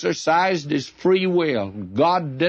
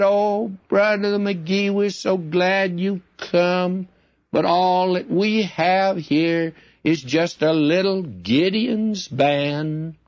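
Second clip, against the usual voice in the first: higher, slow, gushing lady's welcome; a higher, slowed-down gushing church lady; sweet church lady; 4 semitones higher, slower than usual. Retold or imitated. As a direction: coo it like a fond church lady greeting the preacher. Church lady greeting the preacher.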